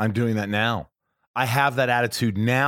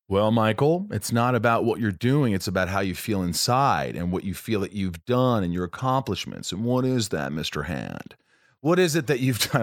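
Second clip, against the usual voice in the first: odd self-talk voice. Pretend. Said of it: "I don't know why I started talking like that".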